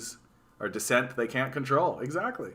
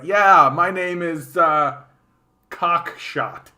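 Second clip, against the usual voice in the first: put-on goofy kid voice; 5 semitones higher, 7 dB louder, much slower than usual. Acting a kid named Cockshot.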